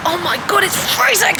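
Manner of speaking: high, loud shriek at the cold; in ice cold water. Real, not acted. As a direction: squeal as if hit by freezing air. Walking into cold store.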